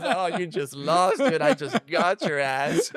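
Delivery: retold gloat, drawn out with laughs; gloating laughter. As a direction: crow over the win, laughing. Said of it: "I was dying laughing".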